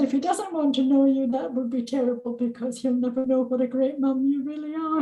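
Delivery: fighting back real tears; tearful. Real, not acted. Mother retelling her daughter's kind words, near tears. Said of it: "I'm gonna cry now".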